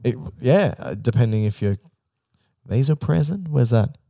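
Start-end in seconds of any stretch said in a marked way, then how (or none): 2.7-4.0 "vasopressin" in a hammed-up American accent, rising at the end; mock American accent. Australian host teasing American listeners with a mock American accent. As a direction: say "vasopressin" the way an American would, a touch of Texan. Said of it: "In that accent".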